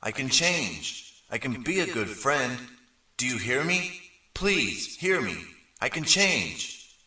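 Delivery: high, slow pleading shout; desperate shouting. A narrator's reading. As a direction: beg to be heard. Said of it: "but I shouted anyway".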